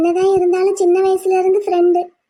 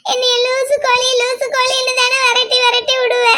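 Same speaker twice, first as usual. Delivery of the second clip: tearful reproach; 2 semitones higher than usual. Acted. Girl reproaching her friend, tearful and hurt. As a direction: still crying, voice raised and hurt. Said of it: "அழுகாத".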